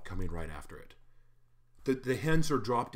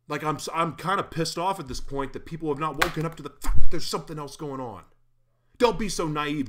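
real frustrated shouting, much higher and louder; angry yelling; 6 semitones higher, 11 dB louder than usual. Real, not acted. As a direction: yell it at the audience, fed up. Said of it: "My mom doesn't like it when I yell on the show".

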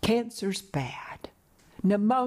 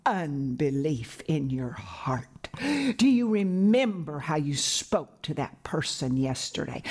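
accusing condemnation; 4 semitones lower than usual. Acted. Condemnation comes accusing a believer, low, measured reproach. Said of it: "condemnation comes and says".

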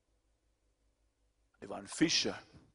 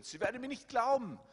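higher, pleading repeat; 12 semitones higher, 3 dB louder, faster than usual. Retold or imitated. Preacher echoing the verse as Moses, higher and pleading. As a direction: lift the verse up high as Moses' worry. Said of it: "repeated verse".

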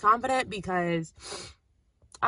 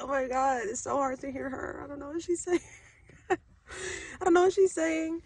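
high-pitched, giggly confusion; laughing bafflement; 7 semitones higher than usual. Retold or imitated. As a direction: break into laughter at not understanding. Laughing over the hard-to-hear accent.

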